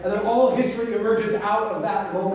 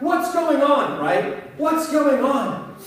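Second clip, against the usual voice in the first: lightly acted alarm, higher pitch; mock-urgent, pitched up; alarmed question; 5 semitones higher, much slower than usual. Woman rushing over to her screaming neighbor, alarmed.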